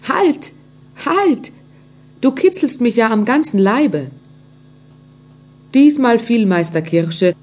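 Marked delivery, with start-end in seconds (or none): 0.1-4.1 much higher, giggly call to stop; laughing cry. Acted. The tickled wood calling to the carpenter, a mild giggling cry. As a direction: squeal "halt" as if tickled. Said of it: "dieselbe Stimme lachend ausrief".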